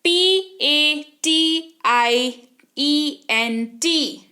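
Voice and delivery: letters spelled very slowly one by one; teacher spelling slowly for the class. Shown as a demonstration. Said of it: "उदाहरण के तौर पर देखिए".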